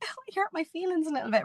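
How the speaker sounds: mock her own sulky self, whining; whingy Louise. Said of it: "whingy Louise, as I like to call her".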